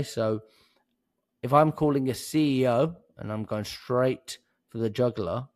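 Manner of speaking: ordinary delivery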